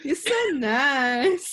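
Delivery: put-on laughing through a parody of a stereotyped accent; laughing mock accent. Friends riffing on a stereotype, laughing in a mock accent.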